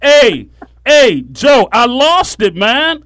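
high, slow, sheepish cousin; imitating cousin. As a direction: play the cousin admitting it. Retold cousin quote.

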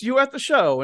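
half-hearted Russian-ish question; lightly voiced foreign accent; attempted accent. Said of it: "I don't do accents".

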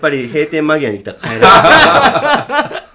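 loud laughing talk. Real, not acted. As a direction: laugh through the words. Laughs after remark about crying. (笑いながら)

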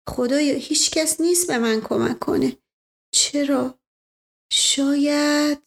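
anxious pleading, slowing down; desperate pleading. Acted. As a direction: plead to God in despair. Boy's desperate inner prayer. (التماس ناامیدانه)

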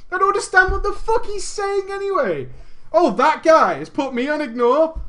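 mock indifference. Ranting he doesn't care.

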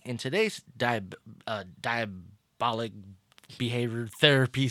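talking around new braces; words a little slurred by braces. Real, not acted. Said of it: "Sorry, I got these braces in".

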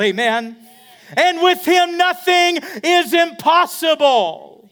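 loud, high shouted preaching climax; full-force preaching. Acted. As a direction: preach it with rising fire to the crowd.

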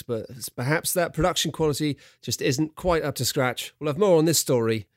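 lightly voiced news correspondent; foreign correspondent. Reporter updating the studio on a punch board story, mock foreign correspondent. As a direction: report it like a sombre live dispatch. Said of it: "your foreign correspondent voice".

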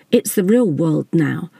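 slow, dry and sarcastic. Acted. Sassy needling her husband in front of the attendant, slow sarcasm. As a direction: let the sarcasm drip slowly. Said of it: "Sass added sarcastically".

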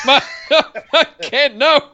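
high, flustered mock squeal with giggles. Cohost squealing in mock fluster at Garza's pants. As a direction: squeal in mock embarrassment, laughing.

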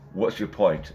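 imitated sideways aside; out of the side of the mouth. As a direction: say it from the corner of your mouth. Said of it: "outside of his mouth".

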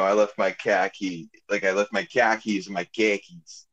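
light imitating Boston accent; lightly mock a Boston accent, flattened vowels. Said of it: "that's my little Boston joke".

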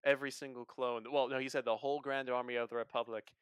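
put-on British accent. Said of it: "why are you, like, British?".

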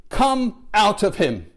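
simple command. Retold or imitated. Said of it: "He says, simply".

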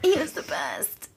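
small, high voice choked with tears; tearful. Real, not acted. Owner remembering the late dog, tearful. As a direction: mourn softly, slowly, close to crying. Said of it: "I'm gonna start crying".

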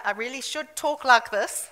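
playful South African accent demo. Shown as a demonstration. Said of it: "I grew up in South Africa".

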